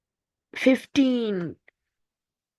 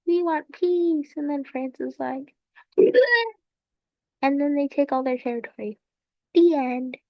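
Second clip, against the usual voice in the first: lightly pitched-up storybook telling; mock kids' book; 4 semitones higher than usual. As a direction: play at reading a little story to children. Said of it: "kids' book".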